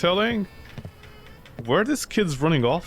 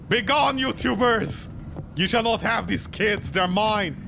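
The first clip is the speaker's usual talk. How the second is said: mock guardian ghost; 3 semitones higher, slower than usual.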